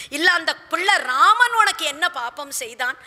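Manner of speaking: acted hurt, indignant appeal; impassioned fatherly protest; anguished reproach. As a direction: remonstrate with her for the boy's sake. King reproaches queen about son.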